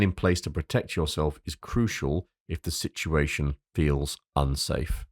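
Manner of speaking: deliberate, serious warning. Real, not acted. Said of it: "That's my serious voice".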